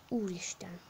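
awed whisper. Real, not acted. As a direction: breathe it in awe. Quiet awe.

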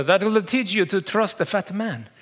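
put-on Italian accent; mock-regal Italian accent, like a king; an opera singer. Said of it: "he looks at me and says".

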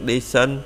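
decent with the DE punched, "DEE-sent"; stress on first syllable. Shown as a demonstration. Teacher shows where the stress in decent falls. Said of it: "đọc nhấn âm trước".

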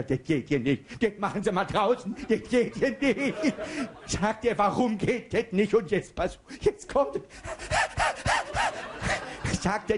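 high, laughing version of the joke; Mario Barth version. Shown as a demonstration. Same baker joke retold laughing as Mario Barth. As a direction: crack up before the punchline. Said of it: "auf seine Art".

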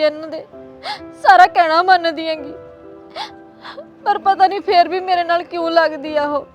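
sobbing softly to her brother; tearful phone complaint. Acted. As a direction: voice full of tears as she pleads. Daughter-in-law crying on phone. (ਫ਼ੋਨ ਤੇ ਭਰਾ ਨੂੰ ਰੋ ਰੋ ਕੇ ਦੱਸਣਾ)

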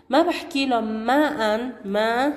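ماء spoken slowly with the nunation heard at the end; tanween shown. Shown as a demonstration. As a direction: draw out ماء so the final n sounds. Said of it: "النون هاي بالنطق وليس بالكتابة".

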